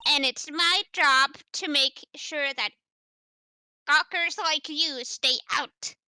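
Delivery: gruff guard voice. Acted. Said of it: "adding, like, a gruffness to it".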